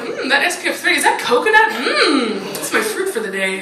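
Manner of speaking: playful gourmet purr, savoring each word; mock savoring. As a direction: taste it like fine food. Savoring sunscreen.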